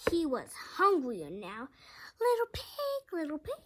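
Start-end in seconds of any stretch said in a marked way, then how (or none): 2.2-3.5 growling wolf. A narrator's reading. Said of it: "he growled".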